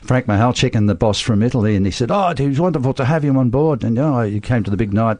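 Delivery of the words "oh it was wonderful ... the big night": higher-pitched opening in a put-on Italian accent; mock Italian accent. Managing director from Italy welcoming the band, mock Italian accent. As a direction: attempt an Italian accent that lands somewhere near Jewish. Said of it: "It sounds like a Jewish accent".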